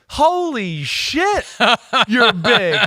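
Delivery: high, loud retold holler of amazement; awestruck outburst. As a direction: re-enact blurting it out at a huge player. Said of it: "I looked at him and went".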